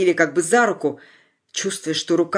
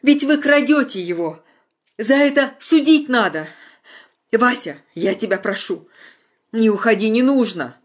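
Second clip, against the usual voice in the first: high, loud desperate plea; pleading outcry; 5 semitones higher, 4 dB louder than usual. A narrator's reading. Anya begs Vasya not to go, loud and high. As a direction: beg him to stay.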